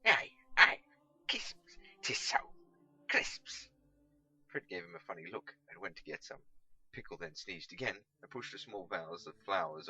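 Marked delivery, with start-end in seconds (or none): 0.1-3.7 loud eager yes to a helpful stranger; eager loud agreement. Acted. Catweasel to the publican, loud and eager. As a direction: burst out loud, relieved someone understood. Catweasel relieved, confirming order.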